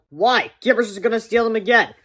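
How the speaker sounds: doubtful friend; worried kid. Acted.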